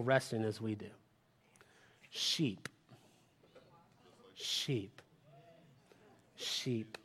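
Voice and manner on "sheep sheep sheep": hushed. Acted. Hushed repeated answer sheep.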